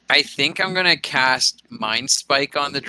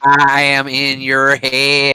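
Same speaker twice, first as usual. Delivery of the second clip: slow, drawn-out mind-reader voice; intense psychic voice; 5 dB louder, slower than usual. Acted. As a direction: stare them down, slow and eerie. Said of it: "makes intense eye contacts at the dragon and says".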